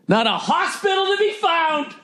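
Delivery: floaty high dreamy tone, like a blissed-out guru; mocking the calm beach guru; mock serene high voice. Mocking the guru's picture, in a floaty high voice.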